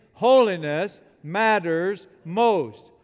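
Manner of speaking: loud, very slow and emphatic; like you mean it. Shown as a demonstration. Preacher urges congregation to mean it, slow emphatic declaration. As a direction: drive each word home, loud and drawn out. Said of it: "Now say it like you mean it".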